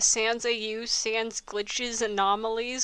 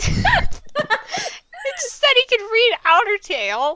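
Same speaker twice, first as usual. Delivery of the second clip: incredulous protest; 10 semitones higher, 7 dB louder than usual. Real, not acted. Outraged at plot inconsistency.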